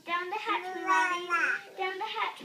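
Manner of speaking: loud pirate cheer; shouting. Acted. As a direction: shout it out together. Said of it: "we all shouted".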